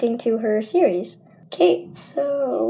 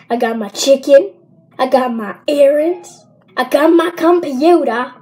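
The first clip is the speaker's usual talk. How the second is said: mounting excitement; 4 semitones higher, 6 dB louder than usual. Real, not acted. Vlogger showing off her things for the celebration, increasingly excited. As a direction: list each thing louder and higher, stretching the last. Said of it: "I'm just really excited".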